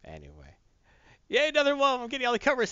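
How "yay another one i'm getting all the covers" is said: high, giddy collector's cheer; gleeful collector. Retold or imitated. A comic fan gloating over his covers, giddy and high. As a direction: squeal over getting every cover. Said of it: "says Bulgarian".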